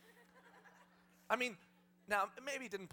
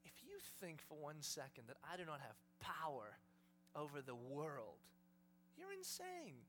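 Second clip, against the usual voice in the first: Jesus whispering; 5 semitones lower, 9 dB quieter than usual. Acted. Jesus asserting his power to disciples, hushed and intense. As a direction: speak in hushed, intense confidence. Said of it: "Do you hear Jesus whispering?".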